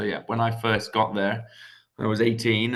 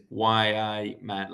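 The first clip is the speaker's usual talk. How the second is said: Geordie phrase spelled out slowly; slow Geordie accent; much slower than usual. Shown as a demonstration. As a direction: say the Newcastle greeting slowly for learners. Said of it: "Which is".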